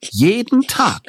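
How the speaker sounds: a woman baffled she never noticed the course; mock bewildered woman. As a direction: ham up her disbelief, stretching it out with a laugh. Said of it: "lese ich".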